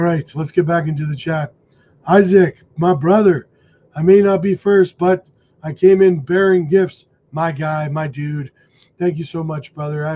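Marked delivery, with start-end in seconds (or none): 2.1-7.0 loud. Acted. Reading out a donor's message.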